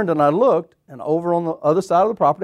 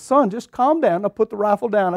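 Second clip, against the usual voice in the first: put-on calming a child; 5 semitones higher than usual. Hunter calming armed boy.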